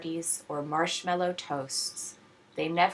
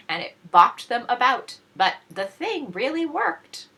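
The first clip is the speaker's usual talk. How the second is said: laughing; 6 semitones higher, 5 dB louder than usual. Real, not acted.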